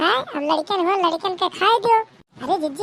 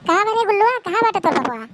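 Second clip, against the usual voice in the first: put-on a raised call to find the boy; 5 semitones higher, faster than usual. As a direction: shout across the house for Gullu. Calling for the missing boy.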